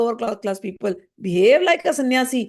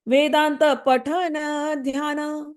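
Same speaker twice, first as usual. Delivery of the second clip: drawn-out chant of a Bengali verse; slow verse recitation; 2 semitones higher, slower than usual. Acted. Teacher reciting a verse to his listeners, slow chant. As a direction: intone it slowly, like scripture.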